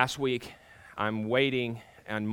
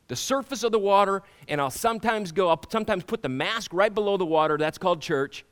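higher, louder preacher push; preaching at full force; 8 semitones higher, 6 dB louder than usual. Acted. Pastor challenging the congregation about masks, forceful. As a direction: drive the point home to the church.

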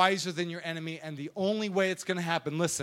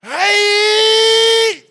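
much higher, much louder battle shout; karate yell; 11 semitones higher, 14 dB louder than usual. Retold or imitated. Miyagi yelling over the kneeling thug, fierce shout. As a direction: explode with a martial arts cry.

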